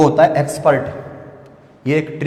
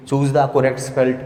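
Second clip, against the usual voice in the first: slow quoted question; much slower than usual. Shown as a demonstration. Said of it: "quoting exam question".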